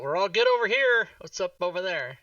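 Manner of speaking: acted yell. Player yells out an all-good to others, calling out. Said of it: "I'll yell out".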